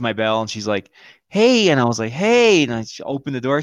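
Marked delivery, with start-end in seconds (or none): 1.3-1.7 mock sing-out greeting, high and loud; high-pitched ex's greeting. Ex greeting him at door. 2.1-2.6 high, loud hello echoing hers; mock greeting back. His reply echoing her greeting.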